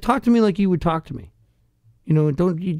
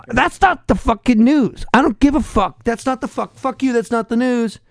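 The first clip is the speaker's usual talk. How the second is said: wound-up rant; 4 semitones higher than usual. Real, not acted. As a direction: vent real irritation, punching NOT. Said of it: "Okay, you're all wound up".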